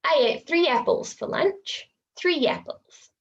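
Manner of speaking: "three apples" as three-yapples; intrusive y. Shown as a demonstration. Teacher demonstrating intrusive y. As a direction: slip a y between three and apples. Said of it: "intrusion demo".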